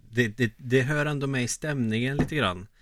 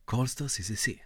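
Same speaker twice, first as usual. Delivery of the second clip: bus announcement. Acted. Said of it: "Eller bussen".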